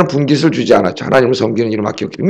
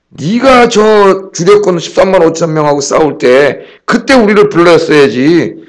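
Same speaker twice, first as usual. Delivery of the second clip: slow, higher, indignant grumbling; mock angry complaint; 3 semitones higher, slower than usual. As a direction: act out the tribe's grievance, slowly and higher. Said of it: "이렇게 막 화를 내면서".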